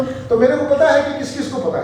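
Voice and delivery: half-laughing as he jokes. Real, not acted. Guest jokes with hosts about who knows, laughing.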